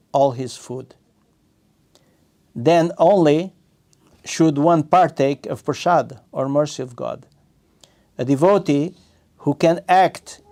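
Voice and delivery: measured, deliberate scripture reading; reading aloud. Acted. Teacher reading scripture commentary to students, measured read-aloud. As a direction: read it out phrase by phrase, stressing key words.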